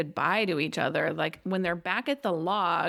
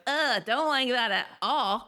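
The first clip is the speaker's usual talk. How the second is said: 1 mild disgust; 3 semitones higher, slower than usual. Retold or imitated. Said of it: "And I was like".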